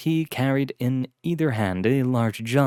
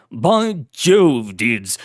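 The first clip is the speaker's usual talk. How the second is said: exuberant cry; 6 dB louder, much slower than usual. Acted. Blackwood crying out to his butler, exuberant aristocrat. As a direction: burst out with delight at an old friend. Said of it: "Lord Blackwood cried out".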